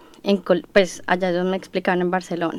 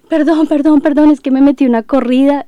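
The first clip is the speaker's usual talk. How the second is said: flustered apology; 5 semitones higher, 7 dB louder than usual. Retold or imitated. Rushing apology, retold scene.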